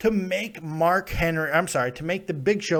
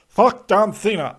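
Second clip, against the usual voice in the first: mock rant; 4 semitones higher, 7 dB louder than usual. Shown as a demonstration. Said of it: "I could give you that".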